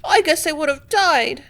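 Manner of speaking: put-on high, tearful girl's confession. Mabel clinging to Benway, high tearful voice. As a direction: sob out the fear that's passing. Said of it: "sobbed Mabel".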